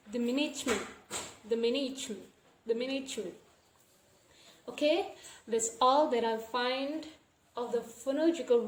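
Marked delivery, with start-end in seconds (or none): 0.1-3.3 "management" clipped to about "manich-men"; reduced G E. Shown as a demonstration. Teacher showing how to pronounce it, "management" with G E reduced. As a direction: reduce the middle of "management", omitting G E. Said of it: "pronounce it as".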